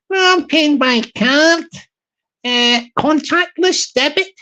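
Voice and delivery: a light put-on voice for the small customer. Wee guy customer voiced in story.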